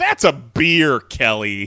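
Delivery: mock sing-song, loud, drawn-out, snarky. Retelling own earlier reply to Kelly: imitating own snarky reply. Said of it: "snarky response that was like".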